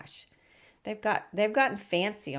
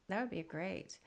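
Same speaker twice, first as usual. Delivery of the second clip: breathless whisper, much softer; whispered aside; 2 semitones lower, 16 dB quieter than usual. Real, not acted. Host whispers an aside to the guest about the glitter tip.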